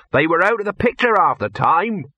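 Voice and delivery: complaining handleman. Acted. Handleman objects to how the trolls moved, complaining.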